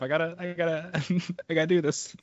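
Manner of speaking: stifling giggles mid-sentence; fighting back laughter; trying not to laugh. Real, not acted. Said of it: "Stop making me laugh".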